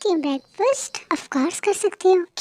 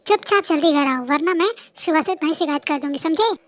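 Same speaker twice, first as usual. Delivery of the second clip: threat; 6 dB louder than usual. Acted. Threatens to complain about him.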